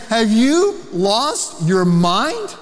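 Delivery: slow, pointed pastoral question; Paul pleading for the Galatians to wake up; drawn-out, disbelieving question; incredulous rebuke. Retold or imitated. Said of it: "And he's saying".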